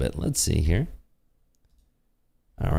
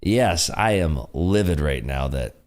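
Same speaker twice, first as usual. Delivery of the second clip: mock livid; slower than usual. Sarcastically answers claim he is angry.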